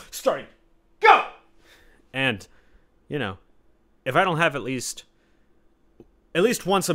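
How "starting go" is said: playful countdown. Acted. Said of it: "announces restart".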